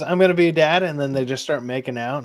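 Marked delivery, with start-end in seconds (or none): 0.0-0.8 loud mocking delivery of the movie line; sarcastic quote of a cringe movie line; mock line read. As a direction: ham it up, louder.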